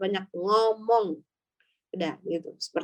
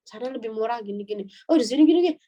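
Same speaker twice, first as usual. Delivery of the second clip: mock loud chatter about the shop, louder at the end; loud gossip to friend; 4 dB louder than usual. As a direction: talk over the seller's head so he hears. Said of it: "Kita ngomong itu keras banget".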